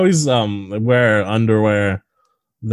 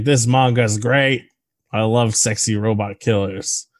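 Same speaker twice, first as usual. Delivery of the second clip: goofy, slow-paced impersonation; James Cameron; slower than usual. Retold or imitated. Mocking a director's love of the manga, goofy voice. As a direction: drag it out in a goofy voice. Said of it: "I gave you a goofy voice".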